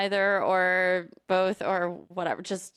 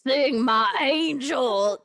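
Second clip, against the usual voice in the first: slow, louder sung phrase; Phantom voice; 3 semitones higher, 4 dB louder, much slower than usual. Pretend. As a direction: sing it like the Phantom. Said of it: "That was the speaker as the Phantom".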